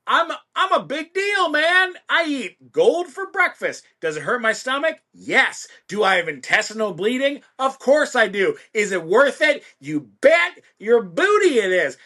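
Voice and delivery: high, swooping big-ego bragging; Gustavo. Acted. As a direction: rant like a puffed-up record producer, high-pitched. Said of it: "record producer with a giant ego".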